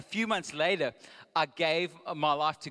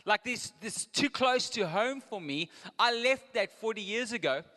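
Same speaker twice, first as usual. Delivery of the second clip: higher, louder, slowed-down worried inner voice; a higher, louder Moses, uneasy and reluctant; Moses' anxious thoughts; 6 semitones higher, 3 dB louder than usual. Retold or imitated. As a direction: voice Moses pleading his fear of going back. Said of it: "he would have thought".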